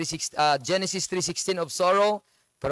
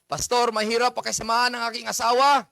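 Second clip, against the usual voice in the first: complaining husband; 4 semitones higher, 4 dB louder, faster than usual. Retold or imitated. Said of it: "ang lalaki".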